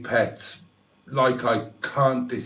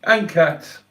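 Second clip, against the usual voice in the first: tearful; 2 semitones higher, 3 dB louder than usual. Real, not acted. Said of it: "a fat old bloke blubber".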